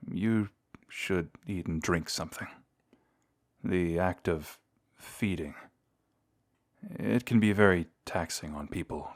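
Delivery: soft, halting reassurance; quiet, tender bedside voice; gentle care. Acted. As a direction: soothe a patient just waking. Tends the hunter waking after feeding.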